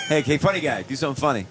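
high, mocking shouted boss voice; Will Ferrell boss voice. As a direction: bark it like a pushy boss. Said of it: "Will Ferrell's the boss".

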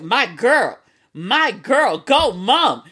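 drawn-out, swooping hype for mom; delighted cheer. Retold or imitated. Daughter spots egg rolls mom brought home, delighted cheer. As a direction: hype her up with a singsong lilt.

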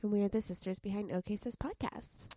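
creaky, sleepy voice; vocal fry. Real, not acted. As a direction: talk with a morning creak. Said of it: "your vocal fry is in full force".

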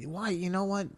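groaning through stomach cramps; stomach pain. Real, not acted. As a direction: talk while your gut hurts. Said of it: "Oh, my fucking stomach".

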